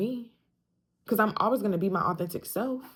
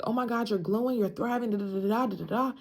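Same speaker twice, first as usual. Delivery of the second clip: lightly voiced gushing friends, higher; a hint of over-sweet praise, pitched up; gushing admirers; 3 semitones higher, faster than usual. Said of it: "everybody's like".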